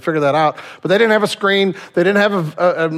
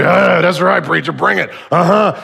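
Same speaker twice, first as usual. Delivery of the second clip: congregation response. Acted. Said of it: "everybody in the congregation".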